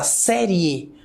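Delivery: "série" with the final I gliding into E; "série" as an oral diphthong; pronunciation demonstration. Shown as a demonstration. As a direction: say "série" so both closing vowels are heard. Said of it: "quando você pronuncia a fala".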